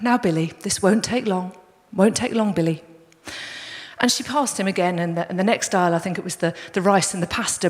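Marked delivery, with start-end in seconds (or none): 0.0-2.8 understated, even, patient reassurance; calm dad. Retold or imitated. Dad to fussing boy in supermarket trolley, very calmly. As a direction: soothe gently without any urgency. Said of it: "very, very calmly saying".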